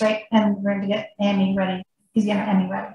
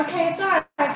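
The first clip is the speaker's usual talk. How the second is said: higher-pitched, soothing comfort; gentle reassurance; 6 semitones higher, faster than usual. Retold or imitated. Wife retelling how she comforted her sick husband, gentle reassurance. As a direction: settle him gently.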